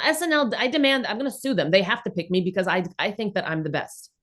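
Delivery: lightly Russian-accented whiny demand, a mock crybaby. Mother mocking an entitled kid in a light Russian accent. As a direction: play a thin Russian accent, whining to be picked. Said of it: "You just went right into a Russian accent too".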